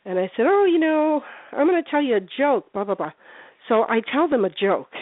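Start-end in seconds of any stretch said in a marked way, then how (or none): 0.5-3.1 retold friendly patter, high then falling; acting nice. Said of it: "I was being nice 'cause I try to be nice".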